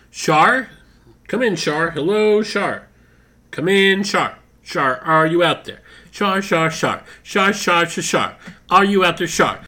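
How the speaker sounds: calling into a radio. Acted. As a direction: call her name over the line.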